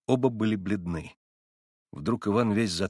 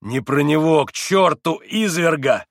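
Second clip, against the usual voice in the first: much higher and louder, raving; frantic howl; frenzied yell; 6 semitones higher, 8 dB louder, slower than usual. A narrator's reading. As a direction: scream it in a frenzy. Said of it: "иступлённо завопил Иван".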